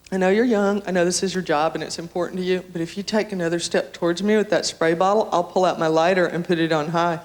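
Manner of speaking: mock-patient, a little low and controlled; sweet reason turning into a calm threat; trying to be nice. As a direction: deliver the threat with put-on patience. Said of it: "I try and be nice".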